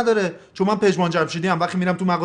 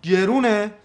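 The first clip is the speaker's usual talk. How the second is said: indignant echo; 3 semitones higher, slower than usual. Acted. Patient scoffing at doctor over shoe price, indignant. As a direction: throw the word back, scoffing. Patient throws the word back.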